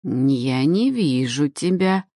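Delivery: slow, intrigued creaky crone; a blind old witch, intrigued; curious old woman. Acted. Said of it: "с интересом призналась она".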